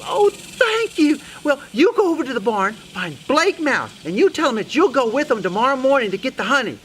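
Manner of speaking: high, emphatic mouse lady; bossy Sue Mouse. Acted. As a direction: gush thanks, then give busy orders. Sue Mouse thanks and instructs.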